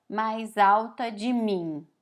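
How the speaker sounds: "mais alta de mim" said slowly and deliberately as the wrong version; wrong literal phrasing. Shown as a demonstration. Teacher showing Portuguese learners the wrong literal version, slow and deliberate. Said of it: "Em português a gente não fala".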